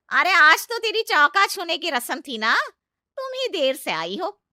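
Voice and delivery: loud, high sharp scolding; scolding aunt-in-law. Acted. Aunt-in-law scolds Sheena for coming late, loud scolding. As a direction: put the new bride in her place.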